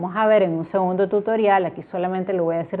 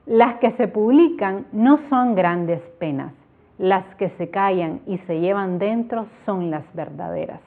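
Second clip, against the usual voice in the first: heartfelt recital. Shown as a demonstration. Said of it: "me encanta por cierto esta estrofa".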